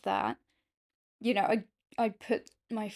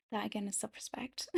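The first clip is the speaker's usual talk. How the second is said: whispered repeat; 10 dB quieter, faster than usual. Shown as a demonstration. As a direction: breathe it in a whisper. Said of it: "whispered repeat of same line".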